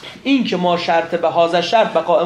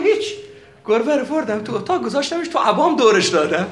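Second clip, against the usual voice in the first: amused retelling; 4 semitones higher, 3 dB louder than usual. Retold or imitated. Cleric explains trick, amused.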